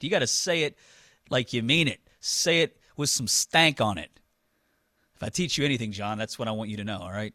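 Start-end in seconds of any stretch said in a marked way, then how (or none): 0.0-4.1 punchy, deliberate coaching, leaning hard on "stank"; projected with stank. Shown as a demonstration. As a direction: say it like you mean it, "stank" hit hard. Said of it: "You gotta project".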